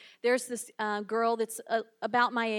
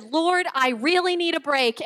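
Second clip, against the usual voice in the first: louder, higher comic prayer; exasperated plea; 5 semitones higher, 7 dB louder than usual. Retold or imitated. Shopper to God as another salesgirl approaches, mock exasperation. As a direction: beg heaven for relief, hammed up.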